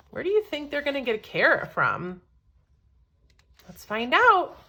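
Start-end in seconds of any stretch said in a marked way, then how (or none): none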